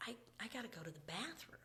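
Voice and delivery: hushed whisper, sheepish. Retold or imitated. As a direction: whisper it like a guilty secret. Whispered confession of needing bathroom.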